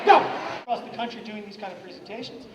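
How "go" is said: calling go. Real, not acted. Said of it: "when I say the word go".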